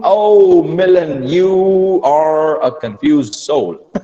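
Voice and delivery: loud, drawn-out teasing sigh of pity; mock lament. Teacher teasing a student over a mixed-up answer, mock lament. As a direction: draw it out with playful, hammed-up despair.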